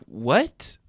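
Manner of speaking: squeaky high are they; mock disbelief, voice jumping up; incredulous. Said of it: "You're like".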